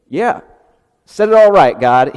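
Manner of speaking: loud, high whooping cheer; shouted cheer. Acted. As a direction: yell it out like a cheering fan. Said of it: "He doesn't say".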